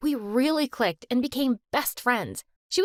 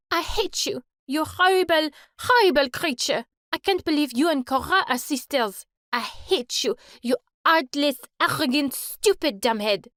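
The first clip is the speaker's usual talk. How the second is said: furious outburst; 2 semitones higher than usual. Acted. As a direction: let it all out in rage. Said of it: "Mandy's breaking point".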